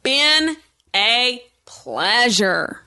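slow, sultry showman sign-off; sexy announcer voice. Pretend. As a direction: purr it like a lounge host. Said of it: "That sexy voice".

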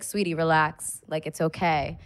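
slow, reassuring cop voice; calm her down gently and slowly; soothing cop. Retold or imitated. The cop soothing the crying driver, slow and reassuring.

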